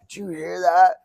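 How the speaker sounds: high, loud mock alarm; startled question. Recalling the point where you're hearing radios, high startled question. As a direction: blurt it like hearing a strange noise.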